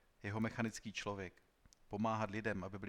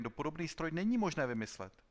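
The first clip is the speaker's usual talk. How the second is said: raised, loud protest; indignant outcry; 6 semitones higher, 5 dB louder than usual. A narrator's reading. Inventor insisting such a machine cannot exist, exclaiming. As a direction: keep crying out in objection. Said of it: "zvolal Korin".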